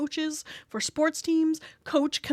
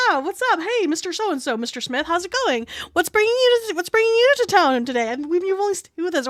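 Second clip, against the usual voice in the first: bright, high customer-service chirp; chirpy front desk voice; 4 semitones higher, 3 dB louder than usual. Retold or imitated. Front-desk clerk greets a guest, high and chirpy. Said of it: "But I'm gonna ask you".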